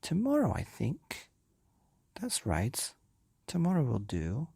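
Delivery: decide lazily; lightly playful menace; musing wife. Acted. Wife changes her mind.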